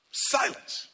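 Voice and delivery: "Silence" breathed as a whisper. Shown as a demonstration. Preacher showing silent mourning, whispered.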